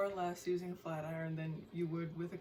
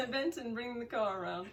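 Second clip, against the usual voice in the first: hammed-up British accent, a little higher; bad British accent; 4 semitones higher than usual. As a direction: attempt a British accent, badly. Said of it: "worst British accent I've ever".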